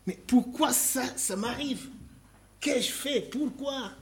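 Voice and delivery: high pleading lament; anguished why me. Acted. Preacher voicing a hurting believer, pleading high. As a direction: cry out why it happens to you.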